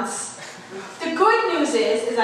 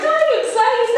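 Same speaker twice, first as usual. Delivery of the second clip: imitating dad; 10 semitones higher, 4 dB louder than usual. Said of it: "and he's like".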